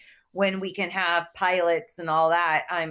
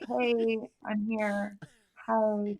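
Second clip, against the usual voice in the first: a hint of an airy white girl greeting; 4 dB quieter, much slower than usual. Shown as a demonstration. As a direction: demo the white girl side lightly. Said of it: "this is my white girl face".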